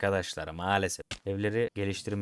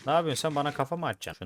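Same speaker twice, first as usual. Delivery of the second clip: startled outburst; 6 semitones higher, 3 dB louder, faster than usual. Real, not acted. Mob jumps at him.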